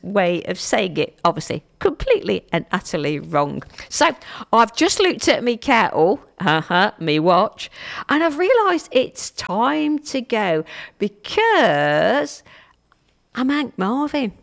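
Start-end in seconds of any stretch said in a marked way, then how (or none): 3.9-14.3 lively, lightly done Cockney; Cockney accent. Acted. Radio host signing off with rhyming slang, playful Cockney. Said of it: "do a Cockney accent again".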